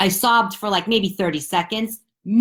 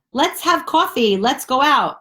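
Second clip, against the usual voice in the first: mock eager friend; 7 semitones higher, 4 dB louder than usual. Imitating friends inviting.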